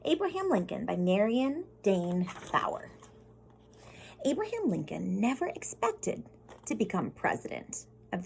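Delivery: put-on storybook reading voice for kids; gentle classroom story read; reading to children. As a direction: read it like a picture book to the class. Reads picture book aloud.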